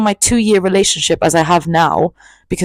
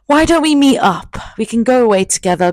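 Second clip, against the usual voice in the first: mock smooth talker; 5 semitones higher than usual. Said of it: "And I was like".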